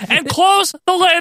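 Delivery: very high, slow announcer parody; hammed-up falsetto interviewer, stretching the key words; Ray Rougeau impression. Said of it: "Ray Rougeau interviewing The Undertaker".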